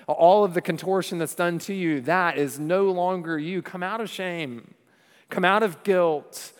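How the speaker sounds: a hint of a commanding call from the tomb; Jesus calling Lazarus out. Preacher voicing Jesus calling Lazarus from the tomb, commanding. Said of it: "He's about to sing a victory song".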